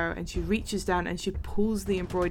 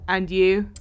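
guard asking; 6 dB louder than usual. Acted. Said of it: "and she goes".

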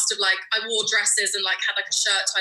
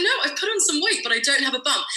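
high protest; 5 semitones higher than usual. Retold or imitated. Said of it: "I was like".

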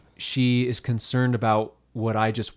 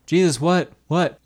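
impatient badgering; 6 semitones higher, 6 dB louder than usual. Crowd badgering Jesus impatiently.

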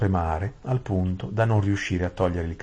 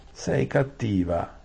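slow, mildly higher Sei cattiva; mild whine; 4 semitones higher, slower than usual. Acted. Saralin sulks at Aravis, slow mild whine. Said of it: "si lamentò la Saralin".

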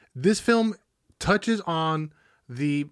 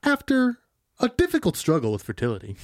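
movie trailer voice; 2 semitones higher than usual. Acted. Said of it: "synopsis in his voice".

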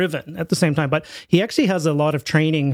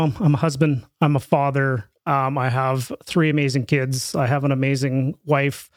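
ordinary talk

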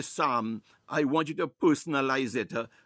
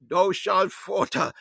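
raised, insistent Pentecostal prayer; fervent preaching prayer; 3 dB louder than usual. Real, not acted. Preacher praying the psalm over listeners, fervent and forceful. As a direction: pray it out forcefully in short surging phrases.

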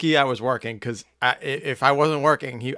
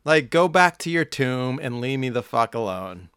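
snarling punk. Acted. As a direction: spit it out like an angry punk. Ranting at golfers.

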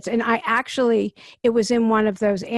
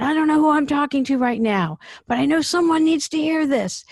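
quoting Angela; 5 semitones higher than usual. Retold or imitated. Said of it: "And then she said".

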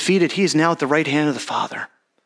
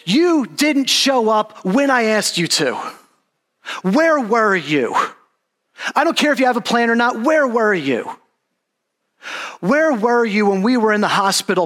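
pleading, higher-pitched reproach in repeated questions; crying out; 5 semitones higher than usual. Acted. Preacher voicing the hurting believer to Jesus, anguished reproachful cry. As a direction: cry out to God, demanding an answer. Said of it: "We are crying out to Jesus".

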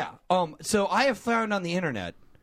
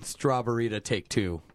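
deep, slow announcer slate; low slate voice; 8 semitones lower, 4 dB quieter than usual. Pretend. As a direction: slate it low like a clip take.

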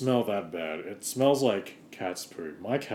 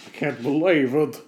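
voice cracking; 3 semitones higher, 7 dB louder than usual. Acted. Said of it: "what happened to my voice?".

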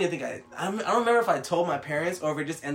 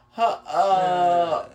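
high, slow startled stammer; high panicky stammer to the cop; flustered panic; 8 semitones higher, 10 dB louder, much slower than usual. Retold or imitated. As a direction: stumble over it like you're caught. Caught speeding, acting flustered.

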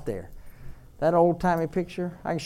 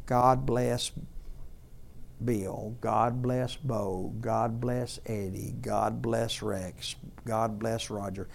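softer, slow naming of each family member; mother's prayer; 3 semitones lower, 5 dB quieter, slower than usual. Retold or imitated. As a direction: pray them in one by one, hushed. Dying mother's prayer retold.

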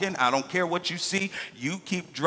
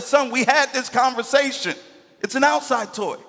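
higher, louder exasperated scolding; frustrated dad; 8 semitones higher, 4 dB louder than usual. Retold or imitated. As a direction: scold your son, fed up.

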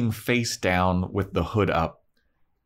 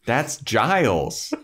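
slow clueless Cordelia; 5 semitones higher, much slower than usual. Retold or imitated. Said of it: "Cordelia's looking around like".

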